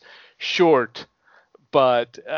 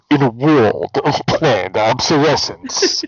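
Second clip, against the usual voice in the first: booming epic trailer narrator, louder; movie trailer voice; 7 dB louder than usual. Shown as a demonstration. Correcting a friend's line with a mock movie trailer announcement. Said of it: "You have to say it the right way".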